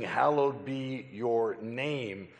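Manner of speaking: Hallowed drawn out and weighted, slowly; slow solemn emphasis. Shown as a demonstration. Preacher to congregation, slow reverent emphasis. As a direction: say it slowly like calling out God's character. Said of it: "So when I'm saying".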